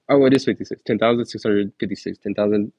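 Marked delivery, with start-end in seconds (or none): 0.1-0.8 higher, louder mock "oh" of a fooled listener; a hammed-up aha; mock viewer realization. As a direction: play the viewer who misheard. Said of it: "it sounded like I said fifty-six".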